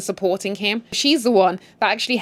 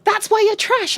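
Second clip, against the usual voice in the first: sassy mistress; 12 semitones higher than usual. Retold or imitated. Voicing mistress insult.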